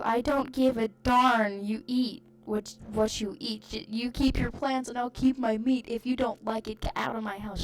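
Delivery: mild mock angry dad; stubborn, huffy rant; dad yelling. Dad yelling to throw aunt out, mock angry rant. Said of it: "Dad yelled".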